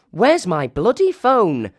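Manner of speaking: high, loud frantic cry; panicked shout. Acted. Emily with her hat alight, high and frantic. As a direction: yell in a panic for the phone.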